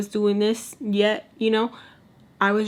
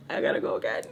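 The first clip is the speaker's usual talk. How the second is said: whisper; faster than usual. Retold or imitated. Sneaking off to the restroom.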